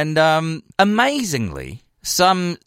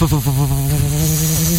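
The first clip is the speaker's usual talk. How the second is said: stuttering shake; 2 semitones lower, much slower than usual. Retold or imitated. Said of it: "he's, like, shaking".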